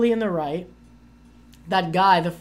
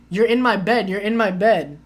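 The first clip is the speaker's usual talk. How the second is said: imitating a yelling drunk; 3 semitones higher, 6 dB louder than usual. Retelling a drunk French guy yelling at her at night, mock yell. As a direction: play the drunk Frenchman shouting at the stranger in his bed. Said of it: "yelling at me".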